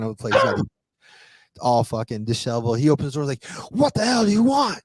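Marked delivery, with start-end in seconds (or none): 3.7-4.8 high-pitched, louder mock scream; imitating an irate yell; retold scream. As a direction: screech it like an angry man at his door. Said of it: "Screaming at me".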